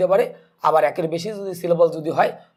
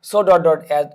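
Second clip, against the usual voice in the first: slow, stretched so dot dot as, every word spaced out; slow and deliberate; 5 dB louder, much slower than usual. Shown as a demonstration. Teacher dictating the pattern slowly to students. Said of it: "teacher spells out the pattern".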